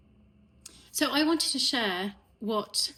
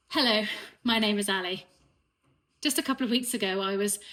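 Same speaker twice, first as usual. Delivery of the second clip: louder, confident hello; fresh start; 4 dB louder than usual. Shown as a demonstration. Ali restarting her introduction for the Love Club, confident and louder. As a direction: reintroduce yourself with new energy. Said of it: "I want to start again".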